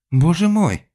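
very high, loud gasp of shock; shocked cry. Acted. Lionella seeing the body, shocked high cry. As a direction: cry out at the sight. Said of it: "непроизвольно вскрикнула".

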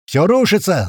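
high, loud panicked yell; panicked scream. A narrator's reading. April screaming to the squad as it collapses. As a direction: scream it in a voice not your own. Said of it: "заорал не своим голосом Апрель".

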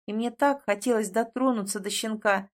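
plain reading voice

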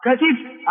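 كتف as ka-tif; original form katif. Shown as a demonstration. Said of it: "هذا هو الأصل". (كتف بكسر التاء: كَتِف)

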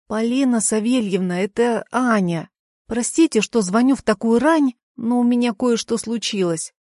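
lisping sh for s in "Простите" and "случилось"; slushy sh for s. A narrator's reading. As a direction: lisp every s into a slushy sh. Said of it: "шепеляво произнесла помощница".

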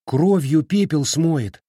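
high, loud, drawn-out fretting; worried. A narrator's reading. Girl fears the remedy will fail, worried. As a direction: fret out loud with urgency. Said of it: "волновалась Фэн Хуан".

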